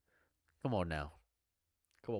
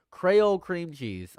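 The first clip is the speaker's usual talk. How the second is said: puzzled; 7 semitones higher, 5 dB louder, slower than usual. Real, not acted. Reading odd flavor name.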